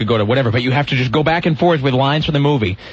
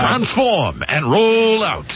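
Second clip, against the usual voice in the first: slow hero robot voice; 4 semitones higher, much slower than usual. Retold or imitated. Transformers quote.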